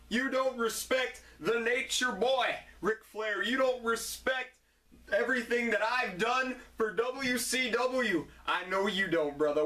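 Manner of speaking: a lightly voiced boastful wrestling champ; hint of a swaggering wrestler promo; Ric Flair impression. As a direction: strut through it like a cocky champion. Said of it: "Ric Flair would break into my house".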